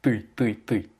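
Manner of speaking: ты repeated with the hard Russian ы; careful vowel drill. Shown as a demonstration. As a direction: drill ты, ты, ты as separate takes. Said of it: "bien prononcer le I". (ты répété avec un « ы » bien net)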